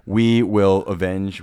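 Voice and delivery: answering the coach's vow heroically; mock battle cry. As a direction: declare it like a movie general.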